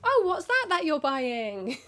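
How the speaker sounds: loud, slow, high teasing announcement; mock loud call-out. Clerk exposing an embarrassed buyer, loud and slow. Clerk loudly calling out purchase.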